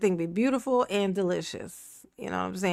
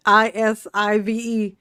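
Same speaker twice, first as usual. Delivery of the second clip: spelled out; 4 dB louder than usual. Shown as a demonstration. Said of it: "spelling out the typo".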